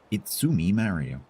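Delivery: lighter, half-hearted Mario; Mario impression. Repeating the Mario bit to chat, a milder hammed-up voice. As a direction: toss off a milder Italian plumber. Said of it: "an Italian accent for a new character".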